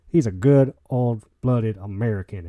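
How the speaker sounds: slow, hammed-up Southern American drawl on these words; fake Southern accent. Host praising a guest as a true American, in a mock Southern accent. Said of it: "There's my fake Southern accent coming out".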